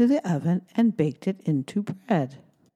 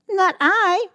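high, louder cat voice; purring cat voice; 13 semitones higher, 5 dB louder than usual. Acted. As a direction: purr it like a cat. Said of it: "purred the cat".

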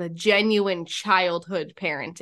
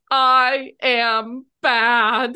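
put-on mild crying child; 3 semitones higher, 7 dB louder, much slower than usual. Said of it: "he is crying".

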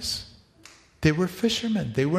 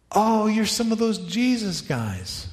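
mock sneer; 6 semitones higher than usual. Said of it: "recognized them as men who".

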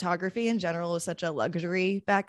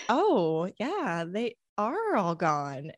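casual; 3 semitones higher, much slower than usual. Retold or imitated. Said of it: "Missus Mills is so casual about it".

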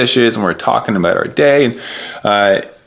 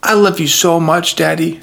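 imitating a small daughter, much higher; little daughter; 9 semitones higher than usual. Daughter to her daddy in the princess hut, imitated in higher voice. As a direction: lift it high as a little girl's tender declaration. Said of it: "she looks up at me and says".

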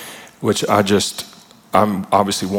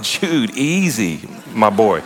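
laughing plea; much slower than usual. Retold or imitated. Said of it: "I'm like".

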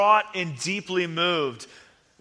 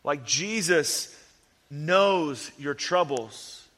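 tender. Real, not acted. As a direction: comfort the hurting listener gently. Tender pastoral slowing down.

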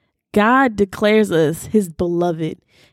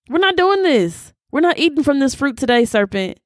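defiant rebuke; 6 semitones higher than usual. Acted. Slapping fruit from a friend's hand.

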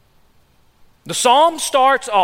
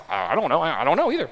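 much softer, lower mumbled confession; quiet admission; 7 semitones lower, 6 dB quieter, much faster than usual. Retold or imitated. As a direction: admit it under your breath, sheepish. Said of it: "You're gonna say".

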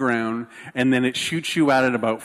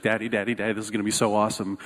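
rapid, lower-pitched imitation of an excited child; retold excitement; 5 semitones lower, much faster than usual. Daughter in line to dad, lightly imitated excitement. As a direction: rattle it off like an eager kid. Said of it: "like, so excited".

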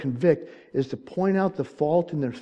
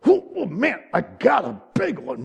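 high-pitched yelps settling back down; mock excited catch; 5 semitones higher than usual. Fisherman hooks a big one, re-enacted excitement. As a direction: re-enact the thrill, starting high. Retelling hooking a big fish.

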